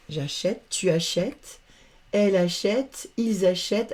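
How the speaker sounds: "achète" said as a-shett each time; open è sound. Shown as a demonstration. Teacher conjugates acheter for pupils, open è in each "achète". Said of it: "on va ouvrir".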